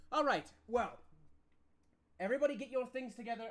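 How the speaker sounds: rally them to pack up fast; npc barking orders. Acted. Npc calling the party to pack up, brisk command.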